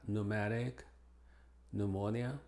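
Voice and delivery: pneumatic and pneumonia said with a silent p, as "numatic" and "numonia"; silent p demo. Shown as a demonstration. Teacher showing Spanish speakers the silent p in pneumonia. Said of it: "es muda cuando precede a la N".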